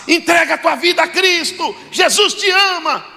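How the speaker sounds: voz bem mais aguda, em tom de apelo; exortação exaltada imitada. Retold or imitated. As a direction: imite um irmão clamando aos pecadores, esticando o final. Imita irmão exortando na igreja. (exortação exaltada, aguda, imitando crente)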